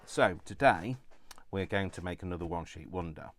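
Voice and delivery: muffled behind a face mask. Real, not acted. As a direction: speak through a mask, muffled. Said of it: "if I sound like I'm muffled, it's probably because I am".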